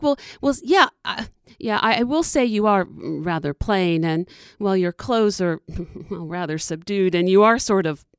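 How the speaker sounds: frank, cheeky critter; groundhog voice. Acted. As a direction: size her up with cheek. Groundhog bluntly sizing her up.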